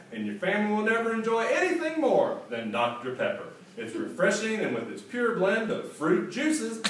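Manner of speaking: radio announcer. Retold or imitated. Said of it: "a monologue that went something like this".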